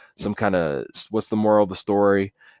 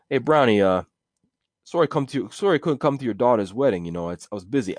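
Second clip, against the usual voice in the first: mobster voice; 3 semitones higher than usual. Acted. Mobster apologizing for missing wedding, wiseguy voice. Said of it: "some lines from the mafia".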